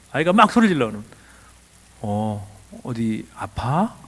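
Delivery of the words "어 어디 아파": very slow, soft, low question; calm, gentle concern. Shown as a demonstration. Adult responding to a screaming child, calm and gentle. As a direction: draw it out softly and low. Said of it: "이 느낌으로".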